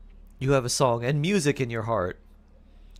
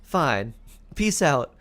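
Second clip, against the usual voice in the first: fed-up goodbye; 5 semitones higher, slower than usual. Retold or imitated. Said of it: "And you say".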